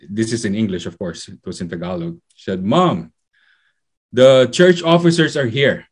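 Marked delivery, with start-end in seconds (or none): 2.6-5.9 mildly raised, higher calling voice; retold child's shout. Child at the door announcing church officers to Mom, retold shout. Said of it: "shouted that".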